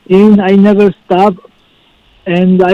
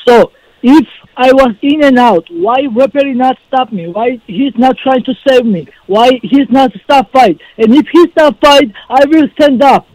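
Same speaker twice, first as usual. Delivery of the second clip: pleading his case, pitch climbing higher as he goes; building, higher-pitched protest; indignant protest; 4 semitones higher than usual. Real, not acted. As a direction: argue insistently against an unfair call, rising in pitch. Protesting the referee's decision to interviewer.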